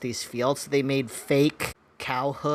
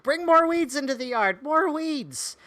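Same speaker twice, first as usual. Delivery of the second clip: wife's bossy voice; 12 semitones higher than usual. Retold or imitated. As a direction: bark orders like an eager wife. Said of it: "my wife's like".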